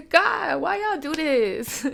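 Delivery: high, teary laugh on the words; half laughing, half crying; laughing through tears. Real, not acted. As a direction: laugh it out, overwhelmed.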